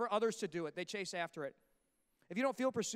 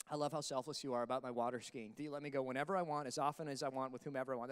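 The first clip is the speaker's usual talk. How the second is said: sweet-talking husband; 8 semitones lower, 4 dB quieter than usual. Retold or imitated.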